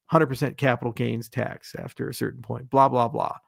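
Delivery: ordinary talk, nothing marked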